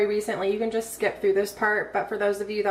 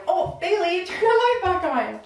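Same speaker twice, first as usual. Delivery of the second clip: high-pitched mom voice; 9 semitones higher than usual. Real, not acted. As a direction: sweetly coax the little one. Mom calls to her toddler.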